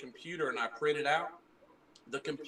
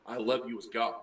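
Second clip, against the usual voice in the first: dawning realization; 3 semitones lower than usual. Retold or imitated. Retelling Peter finally understanding, with understated realization. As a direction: let the realization land, understated. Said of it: "it dawned on him".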